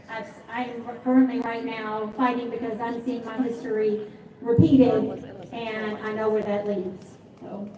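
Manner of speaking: shaking voice. Real, not acted. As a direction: voice shaking with emotion. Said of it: "sorry if my voice is shaking".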